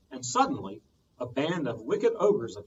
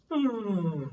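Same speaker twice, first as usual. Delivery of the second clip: drawn-out sleepy hmm; a slow lazy grunt of thought; 7 semitones higher, 3 dB louder than usual. A narrator's reading. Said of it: "He went".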